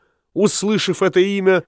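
ordinary delivery

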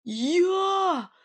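high, sharp gasped Я; gasp of shock. A narrator's reading. Nightingale accused of stealing cows: high shocked gasp. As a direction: gasp it out, genuinely wounded. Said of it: "ахнул Соловей".

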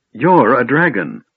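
can't believe her eyes; shocked disbelief. Acted. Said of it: "in shocked disbelief".

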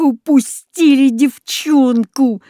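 slow, gruff growl of frustration; dog growling with annoyance; annoyed growl. A narrator's reading. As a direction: growl it out, vexed at the loss. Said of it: "с досадой прорычал Рекс".

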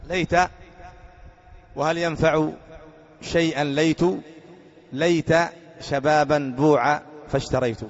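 slow measured recital of the verse; reciting poetry. Shown as a demonstration. Teacher quoting the poet's line, recited slowly. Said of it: "ومنه قول الشاعر".

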